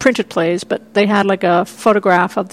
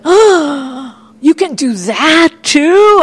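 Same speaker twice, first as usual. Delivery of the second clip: slow, higher, louder amazed question; delighted surprise; 6 semitones higher, 5 dB louder, much slower than usual. Retold or imitated. Teen discovering Mamet's plays, slow delighted amazement. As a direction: stretch it out in wonder. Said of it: "And I was like".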